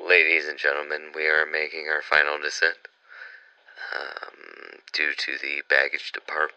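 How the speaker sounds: lightly voiced pilot announcement; deadpan in-flight announcement; flight attendant. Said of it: "Go ahead and land us".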